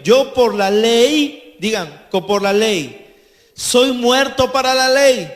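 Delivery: proclaimed scripture. Acted. Preacher proclaiming scripture aloud.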